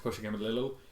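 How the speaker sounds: ordinary delivery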